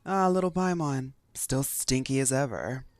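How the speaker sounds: lightly voiced teasing pirate; teasing captain voice. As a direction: tease her, slow and smug.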